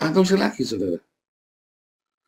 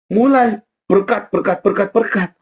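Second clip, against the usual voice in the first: proclaiming blessing; 6 semitones higher, 5 dB louder than usual. Acted. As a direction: call out the blessing over the crowd.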